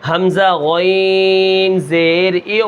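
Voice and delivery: slow حمزہ غین زیر ای with a thick غ, no bounce; heavy غ. Shown as a demonstration. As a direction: stretch it with a heavy غ. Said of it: "موٹی پڑھیں گے". (غین کو موٹا، قلقلہ کے بغیر)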